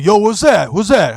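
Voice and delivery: high, loud, disgusted; mock disgusted goon. Goon at the hookah bar, disgusted by the spray. Goomba reacting to smell.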